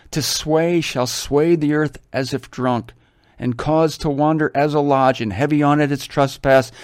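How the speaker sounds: solemn reading aloud; scripture reading. Acted. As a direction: read it out like scripture.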